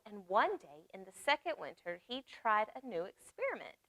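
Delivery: lively storybook reading voice; reading to children. Acted. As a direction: read it warmly to little listeners. Reads picture book aloud.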